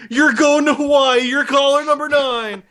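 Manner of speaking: high, loud DJ prize announcement; radio contest host. Retold or imitated. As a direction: hype up the winning caller, drawing it out. Plays radio host announcing a winner.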